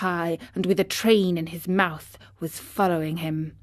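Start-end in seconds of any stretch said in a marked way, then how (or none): none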